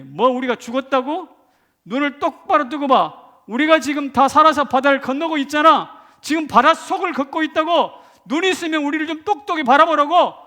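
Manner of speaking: loud, high shout at the enemy; indignant, triumphant full-voiced retort; defiant boasting. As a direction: crow over those who wrote you off. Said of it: "큰 소리 빵빵 치고 싶다".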